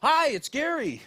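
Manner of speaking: put-on high, loud boyish squeak; nervous squeak. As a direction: squeak it out, imitating a tight-throated caller. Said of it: "I squeak out. It sounded like a pop singer".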